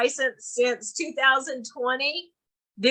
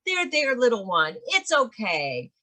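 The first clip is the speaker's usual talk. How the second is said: put-on pat the words like a small child's head; mock soothing a child; 2 semitones lower than usual. Adult soothing a crying child, mock condescending hush. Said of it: "a pat, and then".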